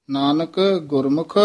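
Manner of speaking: a short stop after ਨਾਨਕ and a rest after ਗੁਰਮੁਖ; pauses on both words. Shown as a demonstration. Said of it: "ਨਾਨਕ ਪਦ ਤੇ ਯਮਕ ਲਾ ਕੇ". (ਨਾਨਕ ਤੇ ਯਮਕ, ਗੁਰਮੁਖ ਤੇ ਵਿਸਰਾਮ)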